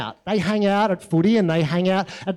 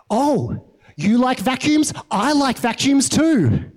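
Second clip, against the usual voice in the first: higher-pitched, hammed-up friendly discovery; mock delight; 5 semitones higher, slower than usual. Two people bond over benign things, mock delighted. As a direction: gush over a dull shared interest, drawn out at the end. Mocks bland bonding over interests.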